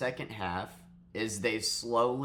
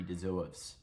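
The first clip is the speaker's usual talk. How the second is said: put-on Boston accent; 3 semitones lower, 6 dB quieter than usual. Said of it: "Getting that Boston accent out there".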